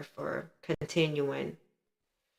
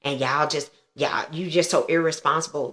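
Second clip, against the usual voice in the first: louder, imitated furious mother's rant; retold angry rant; 4 dB louder than usual. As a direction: unload on her like she's lost it. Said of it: "she just flew off the handle".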